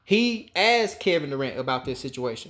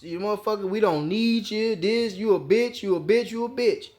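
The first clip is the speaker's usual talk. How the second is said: imitating Draymond going off; 3 semitones higher than usual. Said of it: "Draymond go off. Call him a bitch".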